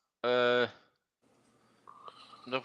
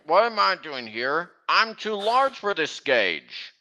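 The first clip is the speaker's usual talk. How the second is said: put-on Southern accent. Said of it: "Anytime I hear a Southern accent".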